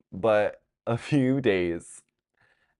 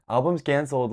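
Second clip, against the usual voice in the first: higher, louder, through a laugh; laughing repeat; 7 semitones higher, 4 dB louder than usual. Shown as a demonstration. Vlogger repeating the joke to viewers, laughing. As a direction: laugh it out the second time. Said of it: "laughs, repeats it".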